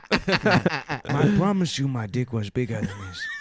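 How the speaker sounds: slow, laughing mock plea; laughing mock shout. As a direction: plead through laughter, hammed up. Acting the man's plea.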